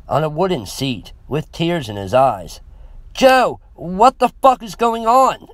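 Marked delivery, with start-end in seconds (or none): 3.1-5.5 loud, high-pitched shouted demand; urgent demand. A narrator's reading. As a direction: demand answers at full urgency. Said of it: "I demanded".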